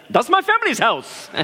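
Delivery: laughing through the quote. Retold or imitated. Retelling Bert's reveal, laughing.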